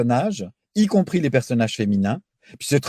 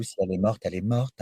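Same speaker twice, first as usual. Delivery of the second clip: jeune première blasée; 4 semitones lower, 6 dB quieter, faster than usual. Retold or imitated. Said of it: "parlait un peu comme ça".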